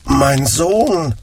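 probing with doubt; suspicious blind father questioning his son, quietly. Acted. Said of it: "Misstrauisch fragte er".

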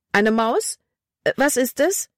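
high, startled question; startled fright. Acted. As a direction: jump at the sound in the dark. Etwas huscht vorbei, sie schreit. (erschrocken, hohe Stimme)

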